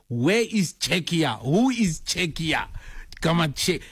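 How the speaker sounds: exaggerated puzzled demand; mock bewilderment.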